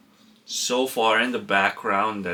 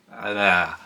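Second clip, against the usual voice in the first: pained gasp; 3 semitones lower than usual. Real, not acted. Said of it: "that really hurt".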